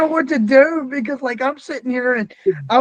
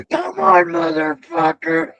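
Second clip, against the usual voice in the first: shouted Come on, higher, then a slow drawn-out motherfucker; mock ring taunt; 5 semitones higher than usual. Retelling Mickey taunting an opponent in the ring, shouted. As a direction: bark the dare at the opponent, then stretch the insult. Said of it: "and she goes".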